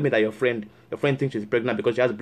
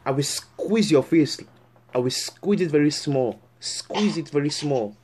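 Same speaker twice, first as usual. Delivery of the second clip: slow, stretched-out threat; menacing threat; slower than usual. Acted. Counselor threatening the girl on the phone, slow menace. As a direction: drag out the word "squeeze".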